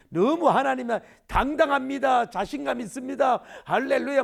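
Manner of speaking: loud, high, hammed-up bold declaration; showy triumphant hallelujah; mock confident prayer. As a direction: proclaim like an overconfident believer. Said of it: "막 이러지 말고".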